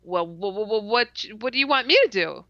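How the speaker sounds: halting start that speeds up; nervous stutter, rushed at the end. Retold or imitated. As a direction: stammer the repeated starts, then rush the question. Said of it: "and I'm stuttering again".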